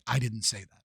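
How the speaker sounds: meek mock protest. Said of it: "they finally interrupt him to say".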